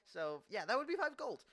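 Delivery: flustered apology. Acted. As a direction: recover awkwardly from an embarrassing slip. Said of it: "he gets up and he's like".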